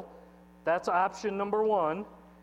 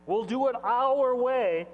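proud shout; 5 semitones higher, 7 dB louder than usual. Acted. Voicing proud Babylon.

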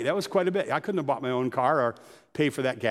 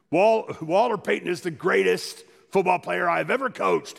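a hint of a gruff, tough coach, louder and slow; 4 semitones higher, 4 dB louder than usual. Pastor imitating a tough football coach praising his star, louder and slow. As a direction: lightly voice a coach who chews nails. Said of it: "it looked like he, like, chewed on nails".

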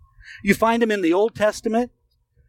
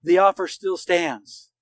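calm, unhurried reassurance to a listener who failed; slow reassuring promise; slower than usual. Retold or imitated. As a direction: let "The offer still stands" land slowly, like a kept promise. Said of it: "that God would say to you".

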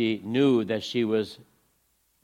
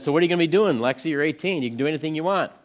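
upbeat encouragement; 6 semitones higher, 4 dB louder, faster than usual. Retold or imitated. Telling Lexi she can choose.

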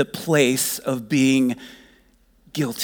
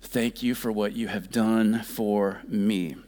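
tender prayer; slower than usual. Acted. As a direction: pray it gently. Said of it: "the goal is to just say".

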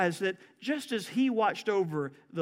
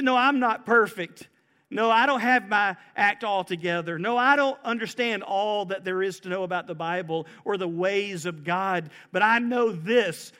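louder, rising confident testimony; bold confession; 3 dB louder than usual. Pretend. Believer answering the preacher, loud and sure. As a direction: declare it with full confidence.

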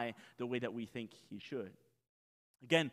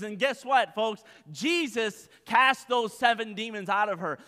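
higher and louder, building fervour; full-force preaching; 7 semitones higher, 9 dB louder than usual. Acted. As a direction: preach it hard to the congregation.

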